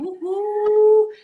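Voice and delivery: high, loud whoop of delight; cheering. Real, not acted. Host cheering Tina on before her reading, loud whoop.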